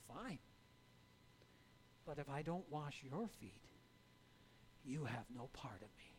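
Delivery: soft, low, ending in a whisper; calm reply. Retold or imitated. Jesus quietly answering the protesting Peter. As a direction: answer gently, no push. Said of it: "calmly replies".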